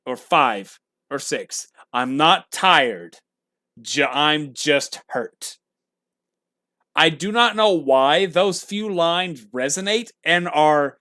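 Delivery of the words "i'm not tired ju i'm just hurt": lightly voiced, slow and quiet; imitating a wounded hero, slowly and softly; quiet, slow quote. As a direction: let the hurt sit under each word, slowly. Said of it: "my favorite line".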